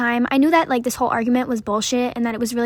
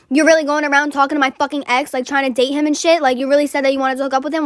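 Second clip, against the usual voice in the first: angry accusation; 3 semitones higher, 4 dB louder than usual. Retold or imitated. Angry girl accuses her.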